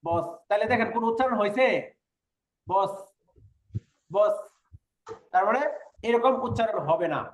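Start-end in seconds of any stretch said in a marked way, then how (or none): 0.0-4.3 বস with the final sound stopped short; বস with a held stop; clipped final s. Shown as a demonstration. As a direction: cut বস off at the end, no vowel after. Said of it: "কোরিয়ানরা এটা উচ্চারণ করবে বস".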